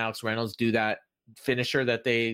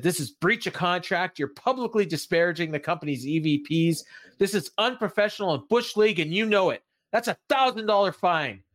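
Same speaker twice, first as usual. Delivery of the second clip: higher-pitched, mildly indignant mock rant; mock angry; 6 semitones higher than usual. Wrestler scolding someone over breach of contract, mock angry. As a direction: act out an outraged scolding, lightly. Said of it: "he gets real mad".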